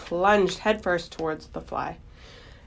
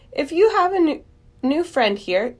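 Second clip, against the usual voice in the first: disgusted scolding; 9 semitones higher, 4 dB louder than usual. Acted. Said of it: "looked at each other in disgust".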